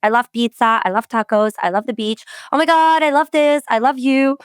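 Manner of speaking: mock gushing, rising pitch at the end; imitating Americans who love everything. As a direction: gush about everything like an excited American. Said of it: "they just use it so often".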